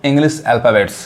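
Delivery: Pronunciation of English alphabets read very slowly; slow heading read for students; slow careful reading. Shown as a demonstration. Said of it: "क्या लिखा है?".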